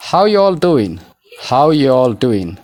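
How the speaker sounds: "How you all doing" linked, are left out, doin' ending; reduced model phrase. Shown as a demonstration. Teacher modelling native pronunciation to memorise, reduced and linked. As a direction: say "How you" as one unit, clearly modelled. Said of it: "pronunciation isaallee akkasitti qabachuu".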